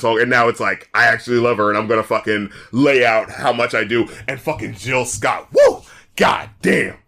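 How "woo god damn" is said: loud, high excited whoop. Real, not acted. Reviewer hyped about a singer's verse. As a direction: cheer it out. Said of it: "reacting to Jill Scott".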